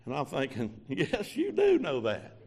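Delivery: slow, amused aside; laughing. Real, not acted. Preacher amused, answering the Lord, slow laughing aside. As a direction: chuckle and drawl it out.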